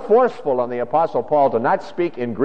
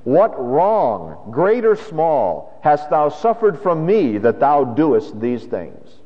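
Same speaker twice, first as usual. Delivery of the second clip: Jesus' voice; 3 semitones higher, much slower than usual. Acted. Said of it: "he said something like this".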